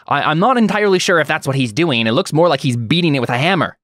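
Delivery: Scrap. Acted. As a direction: play a fussy little droid with swooping pitch. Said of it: "I think we hear Scrap".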